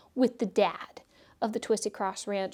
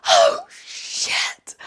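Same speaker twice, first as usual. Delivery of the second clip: much higher, louder startled outburst; startled exclamation; 7 dB louder than usual. Retold or imitated. Driver hearing the Russian voice come on, startled outburst. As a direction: blurt it out, caught completely off guard. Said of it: "I yelled that out loud".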